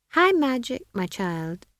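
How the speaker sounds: high, indulgent wizard; lofty, falling away on the address; patronizing wizard. A narrator's reading. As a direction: explain grandly to a small child.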